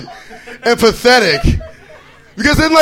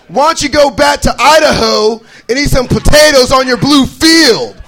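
louder, higher heckle; taunting fans; 4 semitones higher, 4 dB louder than usual. Retold or imitated. Rival football fans heckling the comic, loud. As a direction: jeer it at him. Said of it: "They're like".

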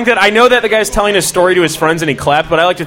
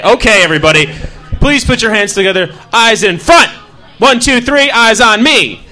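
teacher voice; 3 semitones higher than usual. Acted. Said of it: "I deal with children every day".

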